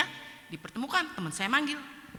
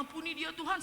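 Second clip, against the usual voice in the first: soft, higher praying voice; pleading prayer; 7 semitones higher, 8 dB quieter than usual. Retold or imitated. Sleepless speaker asking God to forgive the friend, pleading prayer. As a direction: re-enact a quiet plea to God. Re-enacts tearful night prayer.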